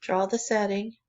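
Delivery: calm, even meditation guidance with long pauses; guided meditation. Real, not acted. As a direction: guide listeners gently inward, leaving room between phrases. Leads a drawing meditation.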